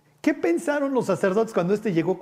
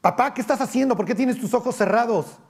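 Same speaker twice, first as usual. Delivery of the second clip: put-on higher, puzzled child's voice; imitating daughter; 5 semitones higher than usual. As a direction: ask like a startled young daughter. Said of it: "mi hija ... me dice". (hija preguntando extrañada, voz más aguda)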